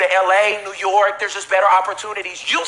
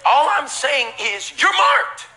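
emphatic declaration; 4 semitones higher, slower than usual. Real, not acted. Preacher declaring to congregation.

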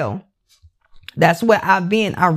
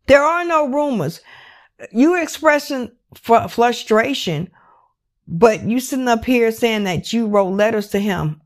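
real anger; 3 semitones higher than usual. Real, not acted. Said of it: "I'm being very vocal because this is how this story is making me feel".

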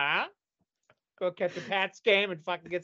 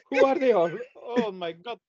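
alarmed locals; 5 semitones higher than usual. Pretend. Locals spotting Puritans landing, alarm fading to dread. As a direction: panic at the funny hats, then give up. Voicing natives seeing Puritans arrive.

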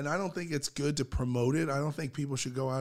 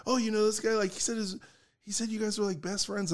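put-on curious girl; 6 semitones higher, faster than usual.

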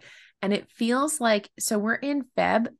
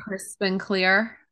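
radio DJ voice; 3 semitones lower, much slower than usual. Pretend. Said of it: "You sound like a radio D J".

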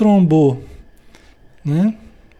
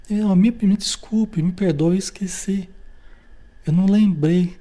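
sincere apology; 3 semitones higher than usual. Retold or imitated. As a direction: apologize gently and meekly. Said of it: "palavrinha mágica".

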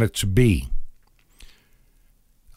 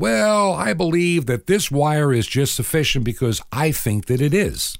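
mock electrician, high start; 5 semitones higher than usual. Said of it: "if he decided".

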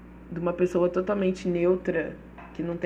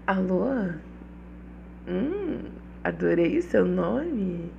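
sexy phone line voice; 3 dB quieter than usual. Shown as a demonstration. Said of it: "Com essa bela voz de vilã de novela mexicana".

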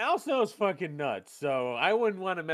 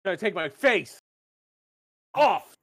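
building mock shout; 6 dB louder than usual. Punchline quote building.

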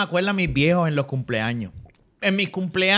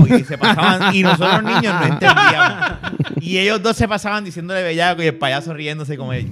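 laughing; 3 dB louder than usual. Real, not acted. Laughing while telling clown story.

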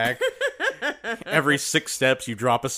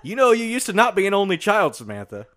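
ominous reveal; 6 semitones higher, 4 dB louder than usual. Acted. Dark reveal in skit.

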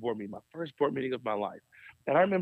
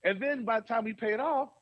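higher, exasperated budget rant; frustrated complaint; 5 semitones higher than usual. Retold or imitated. Pastor at the board meeting, frustrated and higher. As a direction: air the grievance, puzzled and fed up. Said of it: "And I got so frustrated".

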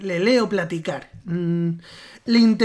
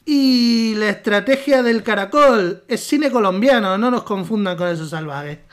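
put-on Argentine accent; 3 semitones higher, 3 dB louder than usual. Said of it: "cuando no estoy leyendo, hablo normal".

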